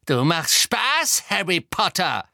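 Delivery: slow, high, loud taunt; disbelieving villainess. A narrator's reading.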